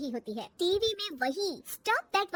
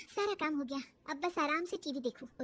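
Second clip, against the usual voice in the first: relieved sigh; 6 dB quieter than usual. Acted. Daughter-in-law sighs after finishing work.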